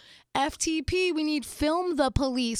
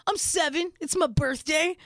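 lightly voiced small boy, pitched up; little boy; 4 semitones higher, 4 dB louder than usual. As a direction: announce it like a proud kid. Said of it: "he was like".

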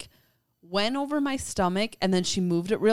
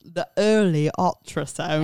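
laughing; 3 semitones lower than usual. Real, not acted. Laughing while correcting herself.

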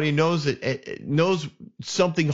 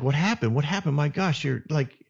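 urgent, higher-pitched repeated questioning; alarmed brother; 4 semitones higher than usual. Retold or imitated. Brother to his sister covered in ashes, alarmed. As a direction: press her with mounting concern.

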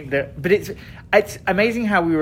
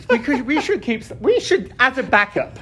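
mocking voter voice; 5 semitones higher than usual. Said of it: "Who were like".

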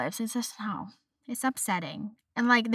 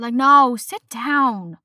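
exasperated dismissal; 6 dB louder, much slower than usual. Real, not acted. Dismissing kids' glow up talk.

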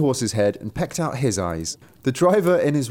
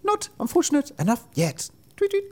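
high-pitched little bird voice; sparrow. A narrator's reading. Sparrow answering the unlucky driver, high-pitched taunt. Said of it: "But the sparrow replied".

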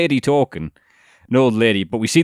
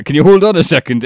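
imitating dad; 7 semitones higher, 7 dB louder than usual. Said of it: "he went".

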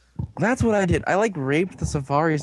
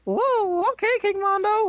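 Scottish robot voice. Retold or imitated. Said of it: "He was a Scottish robot".

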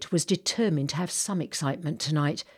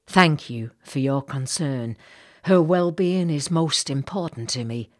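a hint of the Southern lady; 4 dB louder than usual. Missus Bartlett replies.

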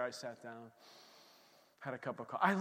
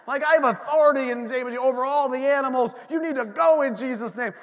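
louder, higher, fast commanding rebuke; rebuking the crows; 6 semitones higher, 8 dB louder, faster than usual. Retold or imitated. A preacher rebuking the crows in Jesus' name, loud and commanding. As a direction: cast them out with authority. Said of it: "I'm, like, cursing these crows".

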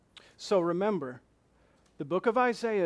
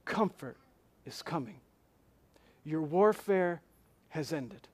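gentle reassurance. Acted. God's soft answer to the complainers.

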